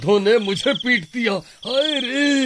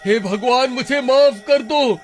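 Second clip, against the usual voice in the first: writhe as the sindoor burns; ghost in agony. Acted. Ghost screaming as priest applies sindoor, agonized.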